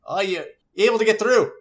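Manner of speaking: brother on the radio. Acted. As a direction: call through the static.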